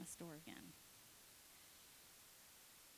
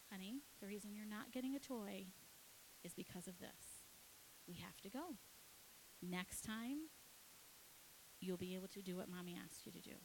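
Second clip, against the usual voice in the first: soft, controlled parent talk; acting out a mother quietly reasoning with a child; patient mother; 9 dB quieter than usual. Mother reasoning with screaming child, retold.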